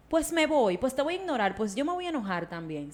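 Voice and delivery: mild imitated annoyance, snapping back at a child; mock fed-up parent. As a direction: act the irritated parent brushing off the angry child. Parent brushing off angry child.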